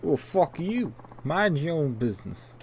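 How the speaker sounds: high-pitched defiant comeback; hostile thug. Acted. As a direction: tell him off as a thug. Thug telling off the cop.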